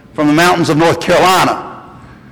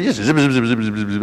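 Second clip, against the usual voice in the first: soft quick zip zip imitating foreign chatter; mock mumbling; 5 semitones lower, 6 dB quieter than usual. Preacher to Ahmad, imitating mumbled talk softly. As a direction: mimic mumbling talk with zips. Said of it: "sound like you're mumbling".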